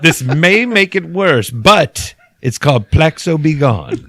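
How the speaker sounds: slow, drawn-out mock announcer read; fake ad announcer. Pitching a fake skin cream to viewers, slow mock ad read. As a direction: sell it like a cheesy TV ad, slowly. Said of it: "You guys wanna record some fake commercials?".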